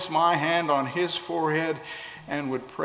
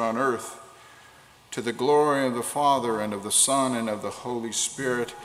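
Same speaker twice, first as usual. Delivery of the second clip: prayer. Acted. Leads congregation in prayer.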